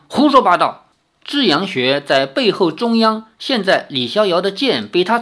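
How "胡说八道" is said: louder, scoffing retort; scornful snort. Acted. Lin Tiannan scoffs at the warning, louder and scornful. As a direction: sneer it off as nonsense. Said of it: "林天南哼了一声".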